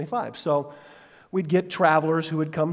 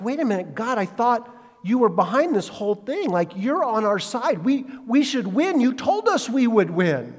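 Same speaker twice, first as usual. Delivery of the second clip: mildly voiced whiny complaint, higher; a pleading protest to God; Joshua's complaint; 6 semitones higher than usual. Joshua protesting to God, lightly acted whine. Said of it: "because he's like".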